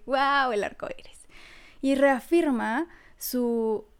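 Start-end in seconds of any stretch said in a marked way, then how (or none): 0.1-1.3 hushed awe. Retold or imitated. Voicing awe at a rainbow.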